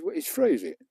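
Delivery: high-pitched incredulous question; retold surprise. Man learning subscribing costs nothing, mock surprised. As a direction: imitate someone taken aback, pitch leaping up.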